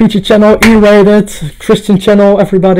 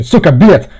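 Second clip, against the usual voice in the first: put-on Russian accent. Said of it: "Russian accent".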